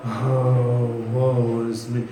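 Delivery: low, sung-out lament of woe; gloomy Eeyore moan. Retold or imitated. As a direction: moan it like a sad donkey. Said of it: "You know Eeyore?".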